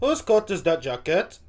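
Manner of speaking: imitation Welsh, rising question; Welsh accent attempt. Viewer copying the comedian, in an attempted Welsh accent. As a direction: have a go at confused Welsh. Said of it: "was I close?".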